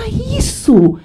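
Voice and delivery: high, loud delighted burst; hammed-up joyful "got it"; excited agreement. Colleague agreeing with a shared idea, excitedly.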